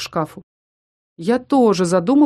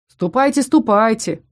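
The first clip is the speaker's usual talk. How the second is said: gurgling; 3 semitones higher than usual. Acted. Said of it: "пробулькал котелок".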